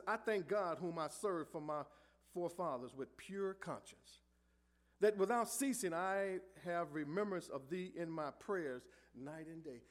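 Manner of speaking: slow, measured verse reading; scripture reading. Acted. Preacher reading Paul's prayer to the church, slow. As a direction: read it out slowly, reverently.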